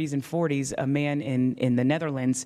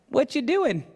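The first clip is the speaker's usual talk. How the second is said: challenging question; 10 semitones higher than usual. Acted. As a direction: fling doing up at the king. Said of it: "says it like this".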